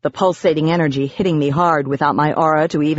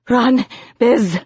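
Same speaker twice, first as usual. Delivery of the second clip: high, pained urgent cry; panting; 7 semitones higher than usual. A narrator's reading. Narrator in agony warning Biz, panted cry. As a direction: urge escape through the pain. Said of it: "I panted".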